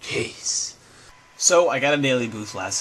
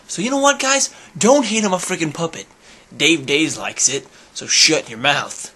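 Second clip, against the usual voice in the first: playfully combative comeback; overly aggressive; 2 semitones higher than usual. Real, not acted. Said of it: "That was overly aggressive".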